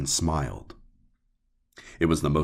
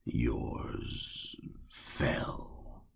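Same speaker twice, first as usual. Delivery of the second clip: much higher, soft, eerie whisper; mock-sorrowful whisper; 8 dB quieter than usual. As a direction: fake pity, breathed out. Man feigns sorrow.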